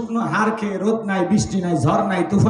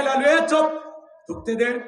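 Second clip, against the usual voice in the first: mild scolding; 5 semitones higher than usual. Retold or imitated. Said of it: "ধমক দেয়".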